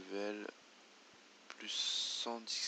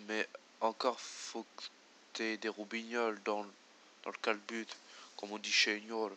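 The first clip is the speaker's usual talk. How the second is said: booming rustic villager, louder; hearty villager voice; 13 dB louder than usual. Acted. Villager greeting the player, hearty and loud. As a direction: play the jovial old villager greeting the hero.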